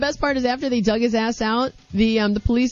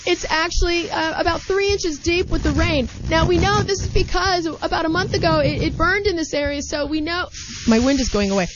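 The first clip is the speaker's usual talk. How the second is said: higher voice, yelling over wind; shouting over wind; 3 semitones higher than usual. Pretend. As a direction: shout it like a gale is behind you. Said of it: "like the wind is really loud behind you".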